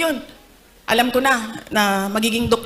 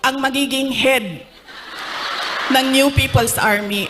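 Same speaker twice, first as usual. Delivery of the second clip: mock angry outburst; 3 semitones higher than usual. Father warns daughter she'll join the NPA, angry. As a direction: raise it, warning her in mock fury. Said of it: "Galit si P R D".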